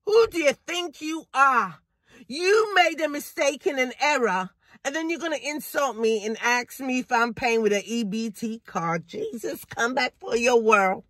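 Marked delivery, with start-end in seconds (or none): 0.1-9.1 scolding the cashier, building then dropping off; mock indignant confrontation; retold telling-off. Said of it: "I said".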